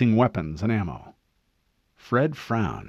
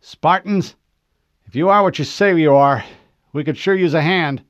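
raised, hoarse weary soldier; tired rasping plea over static; hoarse, listless voice; 6 semitones higher, 6 dB louder than usual. A narrator's reading. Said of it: "a hoarse, listless voice replied".

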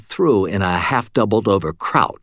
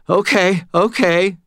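panicked; 11 semitones higher, 4 dB louder, slower than usual. A narrator's reading. Terrified cashier.

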